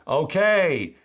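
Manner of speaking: high, loud, hammed-up delight; excited mother. Mother agreeing to go out with her son, hammed-up excitement. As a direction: play an eager mother with a big high okay.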